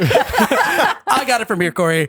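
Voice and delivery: playful takeover. Real, not acted. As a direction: jump in brightly and stretch it out. Takes over the intro from co-host.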